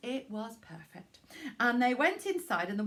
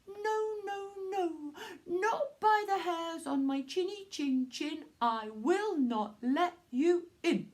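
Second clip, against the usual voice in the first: high little pig; 7 semitones higher than usual. Acted. Pig refuses the wolf.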